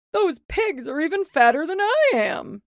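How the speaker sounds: mayor envious; mayor's voice. A narrator's reading. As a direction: grumble it. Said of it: "what he thought was".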